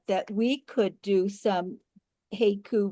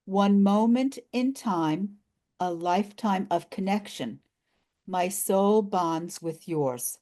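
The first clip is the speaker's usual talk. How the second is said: slow, measured poem reading; drawn-out haiku recital with pauses between lines; slower than usual. Shown as a demonstration. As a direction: read it line by line, unhurried. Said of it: "a haiku from the article".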